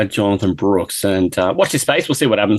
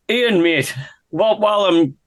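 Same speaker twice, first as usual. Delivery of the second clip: higher-pitched, badly faked Irish accent; mock Irish banter, pitched up; terrible Irish accent; 5 semitones higher than usual. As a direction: put on a deliberately bad Irish voice. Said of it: "while I'm doing a terrible Irish accent".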